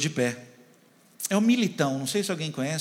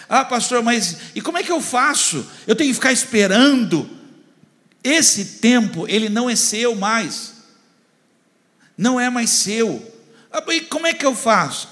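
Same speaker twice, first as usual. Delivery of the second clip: higher, louder preaching push; preaching at full force; 8 semitones higher, 6 dB louder than usual. Acted. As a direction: drive the point home to the congregation. Preacher pushing, voicing listeners.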